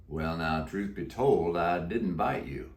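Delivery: low, slow cowboy drawl; a croaky old Western cowboy; deep croaky voice. Acted. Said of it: "He answered in a deep, croaky voice".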